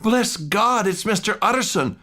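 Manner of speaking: high, overjoyed exclamation; relieved cry. Acted. Cook greeting the lawyer with relief, high relieved cry. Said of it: "the cook, crying out".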